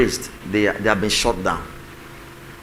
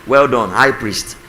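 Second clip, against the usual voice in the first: sarcastic; 5 dB louder, slower than usual. Pretend. Sarcastic praise of interrupter.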